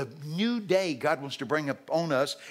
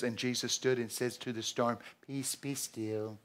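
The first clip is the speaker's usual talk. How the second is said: hushed solemn reading; 4 semitones lower, 7 dB quieter than usual. Retold or imitated. Preacher mocking the King James calm, very soft. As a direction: breathe the words out gently.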